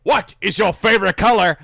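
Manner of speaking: a lightly voiced Holy Grail bridgekeeper; bridgekeeper impression. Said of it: "Holy Grail flashbacks".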